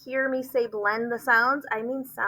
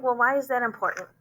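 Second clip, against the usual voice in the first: quick voiced parent question; imagined parent; 2 semitones higher, faster than usual. Teacher voicing a puzzled parent, quick. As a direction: dash off a parent's doubt. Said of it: "And you might think".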